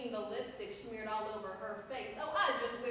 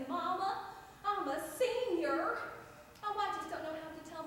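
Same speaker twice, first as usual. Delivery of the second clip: mimicking a teary daughter, higher and sing-song; tearful daughter; 4 semitones higher than usual. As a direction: voice the crying teenage daughter, a bit hammed. Daughter voiced crying in story.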